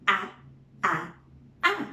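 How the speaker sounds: wide-mouthed short A sound, repeated; saying ahh. Shown as a demonstration. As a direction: open wide and say a. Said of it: "open your mouth wide and say".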